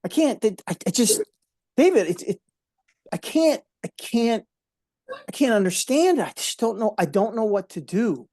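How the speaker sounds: stammering, unable to take it in; retelling a colonel's distress, lightly voiced; upset colonel. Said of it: "he was incredibly upset".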